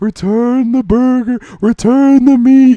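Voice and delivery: high, loud, drawn-out cartoon ghost villain voice. Voicing a ghost coming out of a burger: Courage the Cowardly Dog ghost voice. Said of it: "instead of "Return the slab" from Courage the Cowardly Dog".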